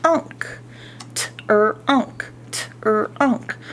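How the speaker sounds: "T, er, unk" sounded apart; syllable by syllable. Shown as a demonstration. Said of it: "teacher segments t-r-unk".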